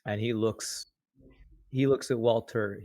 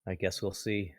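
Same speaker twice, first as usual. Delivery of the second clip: soft, noncommittal thought; reply quietly, as if only thinking it; inner-voice reply; 5 dB quieter than usual. Acted. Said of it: "then in his head says".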